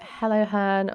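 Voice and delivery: lightly voiced sweetheart hello; romantic greeting. Greeting her girlfriend as she arrives, mildly romantic. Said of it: "romantically this morning".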